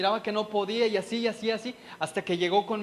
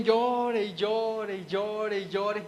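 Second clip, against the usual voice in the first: slow, drawn out like remembered sobbing; retold weeping; much slower than usual. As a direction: stretch each llore slowly, grieving. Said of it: "Y ahí me tienen".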